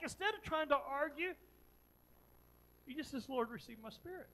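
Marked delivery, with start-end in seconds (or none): 3.3-4.3 even, understated surrender; calm prayer. Retold or imitated. Preacher voicing Stephen being stoned, praying calmly. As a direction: say it simply, with no fight in it. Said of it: "instead of screaming back, instead of ranting back".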